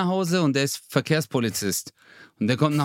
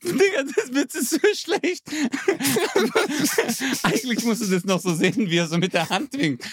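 höher, durch Lachen gesprochen; lacht noch; 9 semitones higher than usual. Real, not acted. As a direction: redet weiter, kann sich kaum halten. Lacht über eigenen Witz. (echtes Lachen nach dem eigenen Witz)

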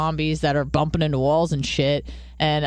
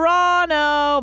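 quick casual answer; 12 semitones higher, 4 dB louder, slower than usual. Retold or imitated. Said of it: "I just went".

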